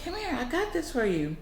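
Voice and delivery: high voice dropping as it goes; beckoning old lady. Retold or imitated. Old lady offering a boy a treat, high beckoning. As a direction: coax a child over, starting high.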